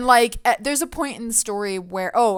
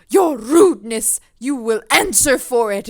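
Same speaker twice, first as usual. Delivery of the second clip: indignant challenge; 2 semitones higher, 7 dB louder than usual. Retold or imitated. Insulted stranger challenging.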